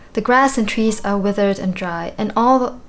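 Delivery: put-on lightly British old character voice; mild British accent for a game character; British accent for Tangrowth. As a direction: read it with a hint of a British accent. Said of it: "a British accent".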